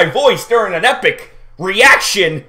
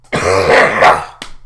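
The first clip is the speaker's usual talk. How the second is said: dry heave cough. Real, not acted. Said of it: "Gotta get that dry heave out".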